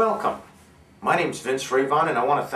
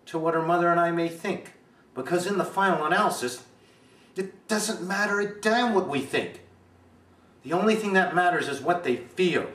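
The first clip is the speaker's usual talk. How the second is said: indignant father; 4 semitones higher than usual. Acted. Father answering the Prentices about his daughter's love, indignant, then tender. Performs a movie monologue.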